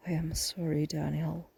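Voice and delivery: soft whispered condolence; grieving whisper. A narrator's reading. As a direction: barely breathe it out in shock. Aunt learns her sister died.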